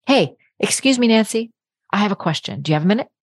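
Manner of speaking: direct, friendly and assured ask; polite but sure-of-yourself request; confident and direct. Shown as a demonstration. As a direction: ask plainly without apologizing. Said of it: "Do you see the total difference in that?".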